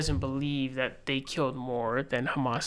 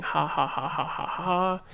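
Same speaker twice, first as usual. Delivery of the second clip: spelled-out "ha ha ha", rising higher at the end; mock read-out laugh; 3 semitones higher, slower than usual. Streamer reading Dave Smith's laughing tweet aloud, mock laugh. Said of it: "sends out a tweet laughing".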